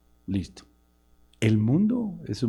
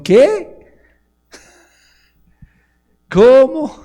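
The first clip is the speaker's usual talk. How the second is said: full-force preaching; 7 semitones higher, 7 dB louder than usual. Acted.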